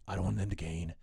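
rousing coach speech. Retold or imitated. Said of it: "He's like".

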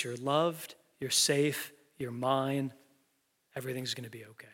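a hint of comfort fading to a soft close; tender reassurance. God's voice comforting the listener.

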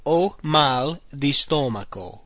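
slow, deliberate repeat. Shown as a demonstration. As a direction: repeat it slowly for learners. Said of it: "I have bad of the stomach".

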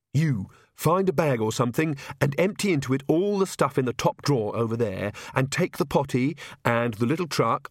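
brisk breathless list of orders; lightly voiced bustling mother taking charge; purposeful queen. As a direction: pile on items as they occur to you.

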